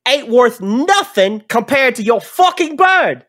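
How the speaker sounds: high, loud, furious little dwarf; squeaky enraged dwarf yelling from below; angry dwarf. Acted. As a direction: bark it up at him like a pint-sized brawler. Dwarf compares robot to bird.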